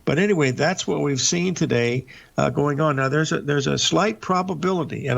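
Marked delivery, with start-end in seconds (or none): 3.4-5.1 slight emphasized for caution; stress on slight. Real, not acted. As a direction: lean on the word slight, slightly higher. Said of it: "I emphasize the word slight here".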